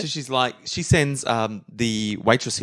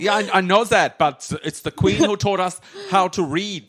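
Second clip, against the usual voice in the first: German posing as British; 5 semitones higher than usual. Acted. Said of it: "talks with a British accent or a German accent".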